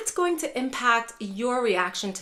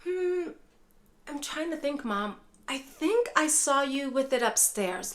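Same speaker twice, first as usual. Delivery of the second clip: gentle reassuring; 4 semitones higher than usual. Shown as a demonstration. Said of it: "You can say".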